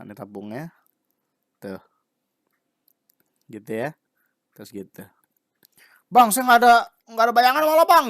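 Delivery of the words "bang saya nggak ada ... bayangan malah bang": pleading student. Retold or imitated.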